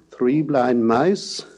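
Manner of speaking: "three blind mice" spoken slowly with a rising glide. Shown as a demonstration. Lecturer showing spoken gliding pitch. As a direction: say it as a question, pitch sliding up. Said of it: "as when we say".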